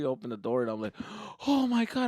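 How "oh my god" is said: high, breathless mock amazement; amazed kid. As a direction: exclaim it fresh off a thrill ride. Kid gasping as door opens.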